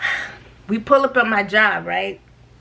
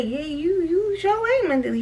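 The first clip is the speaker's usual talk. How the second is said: sarcastic aside; 6 semitones higher, 4 dB quieter than usual. Retold or imitated. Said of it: "I wanted to say".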